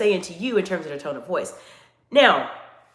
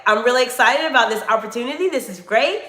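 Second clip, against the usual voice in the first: a bit brighter and louder, showing enthusiasm; excited demo; 3 semitones higher, 4 dB louder than usual. Shown as a demonstration. Coach demonstrating an excited tone to her viewers, upbeat. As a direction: lift the voice just a little, sound thrilled. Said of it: "my tone of voice goes up just a little bit".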